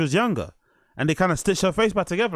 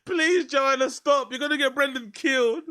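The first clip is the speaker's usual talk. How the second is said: laughing plea; 8 semitones higher than usual. Real, not acted.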